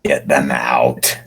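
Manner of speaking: low, slow mumble through barely moving lips; mumbled. Acted. The prophet mumbling a plea to get them out. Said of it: "the prophet mumbled".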